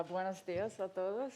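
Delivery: Spanish greeting in an American accent; Spanish spoken with an English speaker's accent; gringo accent Spanish. Real, not acted. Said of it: "Sorry for my terrible Spanish".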